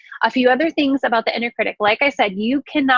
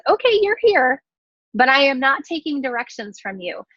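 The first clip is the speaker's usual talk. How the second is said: firm boundary; 3 semitones higher than usual. Pretend. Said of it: "how to recognize".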